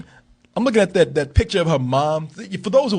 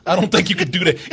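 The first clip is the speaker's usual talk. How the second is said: laughing doubt. Retold or imitated. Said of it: "She's just like".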